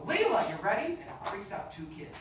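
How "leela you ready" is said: higher, louder sudden call; spring the name on a pupil; mock calling out. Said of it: "So I can go".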